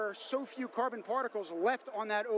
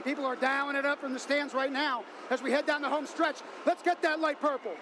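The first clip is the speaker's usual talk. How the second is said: building excitement; 4 semitones higher than usual. Real, not acted. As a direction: ride the crowd's rising noise. Commentary building with crowd.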